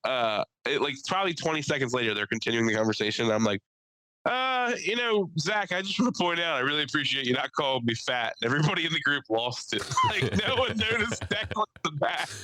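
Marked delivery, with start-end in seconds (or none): 4.2-8.3 mock-polite speaking up. Comic piping up to thank the arguer, mock-polite. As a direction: pipe up hesitantly, then settle into sincerity. Retold hesitant speaking up in group.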